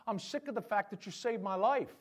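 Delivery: hammed-up indignation, swelling at the end; mock complaint. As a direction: grumble absurdly at the one who saved you. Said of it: "me going to my heart surgeon and going".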